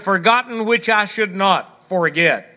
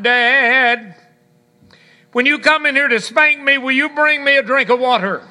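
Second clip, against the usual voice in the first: put-on higher, quicker little boy calling from bed; pleading little boy; 4 semitones higher than usual. Little boy calls to his father from bed, higher and quick. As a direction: play the cheeky thirsty kid, pitched up and hurried.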